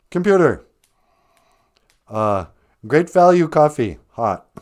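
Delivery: mock commanding captain's order, lightly voiced; playing Picard. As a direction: order the replicator like a starship captain. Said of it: "when I'm playing Captain Picard".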